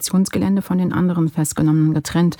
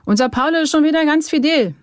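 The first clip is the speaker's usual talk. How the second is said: high, raised singsong proclamation; mocking announcement; 12 semitones higher, 4 dB louder than usual. A narrator's reading. Bierovka telling the bus that Paul is fine, mocking call. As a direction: crow it out for everyone to hear.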